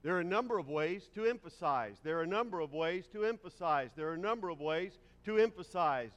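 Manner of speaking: same line said three times, steady and firm; repeated for emphasis. Shown as a demonstration. Preacher repeating a sentence to demonstrate emphasis, firm. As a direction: drive it home by repeating. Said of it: "one can emphasize by repeating themselves".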